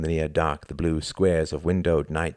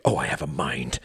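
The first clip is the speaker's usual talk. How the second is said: understated bitter retort; 3 semitones lower than usual. A narrator's reading. Youngest brother retorts to Tom, bitter. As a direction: answer with contained resentment. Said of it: "said Chris bitterly".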